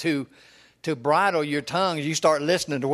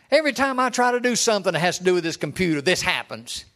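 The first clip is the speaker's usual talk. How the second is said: fast, louder, exasperated friend; frustrated; 3 semitones higher, 3 dB louder than usual. Retold or imitated. Friend complaining on the phone from Walmart, frustrated and fast. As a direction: blurt it out like a fed-up old man fighting his computer. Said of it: "he'd get all frustrated and say".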